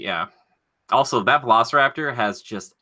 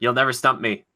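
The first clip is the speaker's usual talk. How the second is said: mock boast. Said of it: "I'm just kidding".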